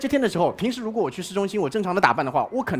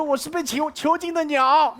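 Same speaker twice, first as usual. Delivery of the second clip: mock pitiful; 7 semitones higher, slower than usual. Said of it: "我说".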